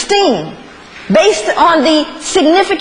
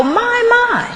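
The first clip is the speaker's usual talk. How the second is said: slave master's appraisal; 6 semitones lower than usual. Acted. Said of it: "they go".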